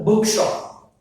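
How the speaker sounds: "Bookshop" with BOOK high; first-word stress. Shown as a demonstration. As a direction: hit "book", let "shop" drop. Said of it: "Stress falls on the first one".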